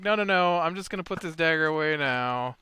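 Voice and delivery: nervous backpedal. Retold or imitated. Player retreating from the orc leader, nervous and quick. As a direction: hurry to put the dagger away. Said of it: "And he's like".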